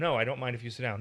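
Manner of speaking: a resentful yes disguised as politeness; reluctant clipped permission; grudging no. Shown as a demonstration. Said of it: "It only matters how you say yes or no".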